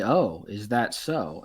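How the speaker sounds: slow sly goblins. Acted. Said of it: "the three goblins say".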